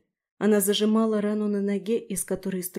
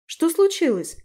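much higher, louder ask; alarmed question; 8 semitones higher, 5 dB louder than usual. A narrator's reading. Tris asks Daphne what happened, alarmed and higher. Tris worried at their state.

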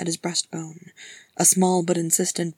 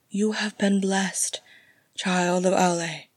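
gentle smile. Acted. Galadriel reassures Gimli, gently smiling. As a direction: bless him with a smile in the voice. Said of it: "smiling gently".

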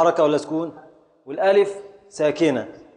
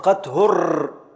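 slow scansion; slower than usual. Shown as a demonstration. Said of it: "ابدأ في التقطيع".

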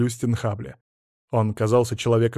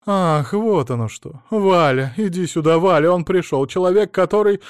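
loud call; 5 semitones higher, 5 dB louder than usual. Acted. Woman shouting for husband.

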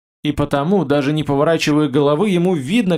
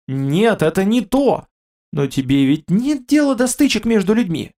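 raised, higher hurried exclamation; hurried cry; 5 semitones higher than usual. A narrator's reading. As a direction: rush the words out, calling. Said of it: "Человек вскричал торопливо". (торопливый вскрик, выше и громче)

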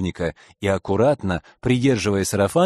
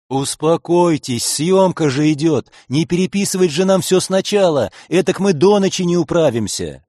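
увещевание; 5 semitones higher, 4 dB louder than usual. Acted. Следователь унимает спорящих.

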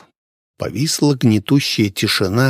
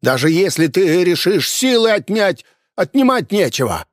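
higher, sharp furious cry; furious exclamation; 8 semitones higher than usual. A narrator's reading. Innkeeper shouting back at the hunter, furious and higher. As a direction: fling the words back in rage. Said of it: "яростно воскликнул хозяин".

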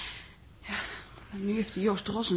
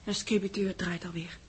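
whisper; 3 semitones lower, 4 dB quieter than usual. Acted. Quiet remark during dictation.

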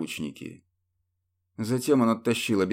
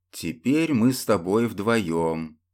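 smirking; slower than usual. Acted. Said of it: "усмехнулся престол".

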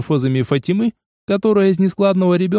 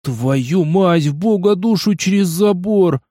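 heartfelt curse; 5 semitones higher, slower than usual. Acted. Newton curses, voice problem unsolved, heartfelt swearing. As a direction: swear with real feeling. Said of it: "с чувством выругался Ньютон".

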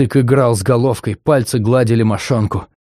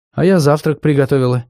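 put-on a bashful girl's voice, higher; shy smile; 5 semitones higher than usual. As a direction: smile through it, a little embarrassed. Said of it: "смущённо улыбнулась".

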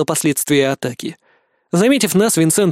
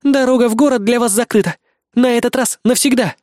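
higher, hurried report; urgent woman voice; 7 semitones higher than usual. A narrator's reading. Kay warns the group the enemy is close, urgent. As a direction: warn them, higher.

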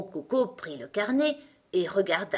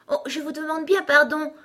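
high, loud cry of consternation; dismayed apology; 10 semitones higher, 7 dB louder than usual. A narrator's reading. Alice has offended Gros Coco, dismayed. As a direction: apologise profusely, voice jumping up. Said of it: "s'exclama-t-elle toute consternée".

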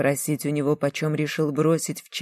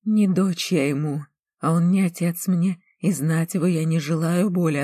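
louder, firm defiant refusal; 2 semitones higher, 4 dB louder than usual. Acted. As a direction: reject him outright. Defiant girl rejects her father.

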